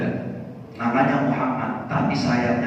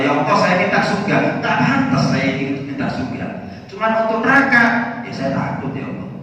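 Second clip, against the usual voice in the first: high pleading that fades to a whisper; begging prayer; 7 semitones higher than usual. Acted. Abu Nawas begs, then fades. (merengek tinggi lalu melemah menjadi bisikan)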